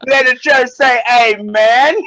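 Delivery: slow, hammed-up preacher call; rally the congregation, slow and playful; mock pastor call. Joking friend slipping into a mock pastor's call, slow and hammed-up. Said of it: "like a black pastor".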